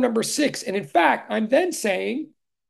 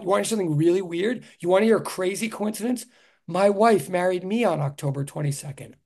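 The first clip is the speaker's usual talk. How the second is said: sarcastic; 5 semitones lower than usual. Shown as a demonstration. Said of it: "I am being sarcastic".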